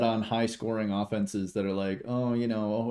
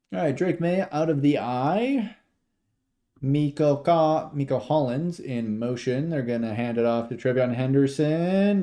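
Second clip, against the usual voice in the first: live play-by-play. Real, not acted. Streamer calls the handoff live, play-by-play. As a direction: narrate the play as it develops.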